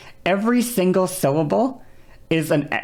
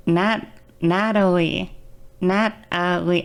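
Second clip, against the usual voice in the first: slow, careful; slower than usual. Shown as a demonstration. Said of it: "What I would do is I would go".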